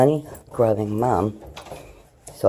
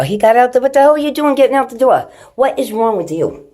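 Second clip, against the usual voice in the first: loud, high, exasperated scolding; scolding shout; 13 semitones higher, 10 dB louder than usual. Real, not acted. Mom yelling at the cat who ran out the door, loud scolding. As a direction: yell at the cat for escaping.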